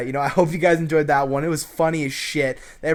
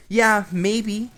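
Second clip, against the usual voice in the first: cool and distant; 4 semitones higher, slower than usual. Retold or imitated. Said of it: "played, like, you know, the cool, distant guy".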